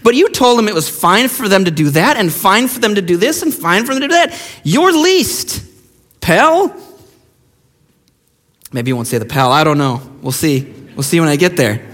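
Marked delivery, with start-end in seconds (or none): 0.0-6.8 a lightly voiced stern Jesus, rising higher at the end; mock-reprimand from the Lord, tossing off pal; Jesus scolding pastor. Jesus calls the pastor least, a mild stern rebuke. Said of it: "He's gonna say".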